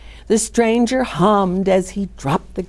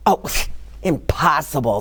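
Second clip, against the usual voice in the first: laughing it off as nonsense; a chuckling dismissal; mock disbelief with a laugh; scoffing laugh; 4 semitones lower than usual. A narrator's reading. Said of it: "said the people of Helm".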